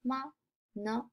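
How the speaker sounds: "ma, na" each short and light; unstressed, brief "ma" and "na"; zero tone. Shown as a demonstration. Reading out zero-tone examples, light short "ma, na". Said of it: "the zero tone".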